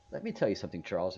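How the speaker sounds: put-on a light, clumsy Indian accent; lightly put-on Indian accent, quoting a guru; bad Indian accent. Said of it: "I have a t-, horrible Indian accent".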